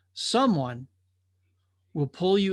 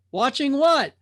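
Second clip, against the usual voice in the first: curious drifter; 9 semitones higher, 6 dB louder than usual. Acted. Drifter presses the watcher.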